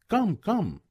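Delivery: high thin call, like a bird twittering; thin, tender call. A narrator's reading. Faline's voice calling Bambi from afar, thin and tender. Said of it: "thin as the bird's twittering and tender".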